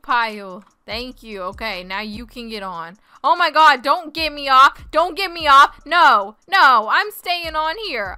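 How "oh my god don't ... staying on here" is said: insistent, raised-voice refusal; loud protest. Real, not acted. Player being pushed off the wolf pile, loud insistent protest. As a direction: refuse loudly, digging in.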